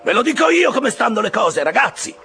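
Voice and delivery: very high, loud cry to the crew; crew-driving shout. A narrator's reading. Boat officer urging his crew on, shouting high and loud. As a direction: holler at your men to rally them. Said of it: "gridava intanto Stabbe al suo equipaggio".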